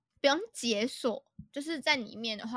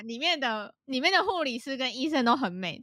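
laughing; 2 semitones higher than usual. Real, not acted. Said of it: "我现在有一个结论".

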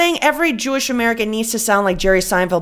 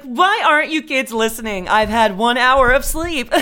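slow, lightly higher worn-out voice; tired tragic mom; 3 semitones higher than usual. Shown as a demonstration. Showing her own tragic take on the mom, slow and weary. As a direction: deliver it as tragedy. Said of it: "It's like".

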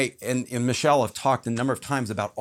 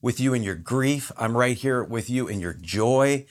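reassuring God. Retold or imitated. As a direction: comfort the grieving gently. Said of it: "God is always going".

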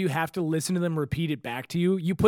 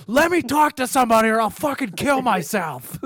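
mock frustrated plea; 5 semitones higher, 4 dB louder than usual. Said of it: "by then I'm like".

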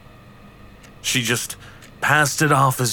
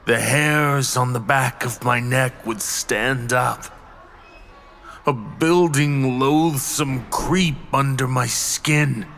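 hushed creeping horror. Acted. Narrating dread of unseen presence.

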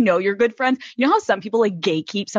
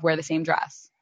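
softly repeated advice; quiet, softer repeat; 5 semitones lower, 7 dB quieter than usual. Retold or imitated. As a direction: say it again, softer and lower. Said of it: "So I told Lauren".

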